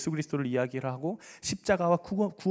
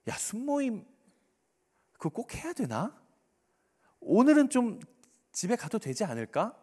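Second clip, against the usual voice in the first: higher, wheedling coaxing; tempting suggestion; 6 semitones higher than usual. Acted. Satan suggesting skipping small group, wheedling. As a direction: float the excuse as an innocent question. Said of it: "사단은 우리한테 이렇게 이야기를 해요".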